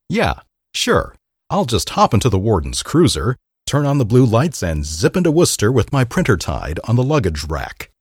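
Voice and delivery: sarcastic, high scoff; mock it with sarcasm. Sarcastic quoted prisoner.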